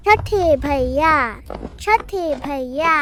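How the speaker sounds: drawn-out call for brother. Acted. Little sister calls for sixth brother, calling out. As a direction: call out, stretching the last vowel.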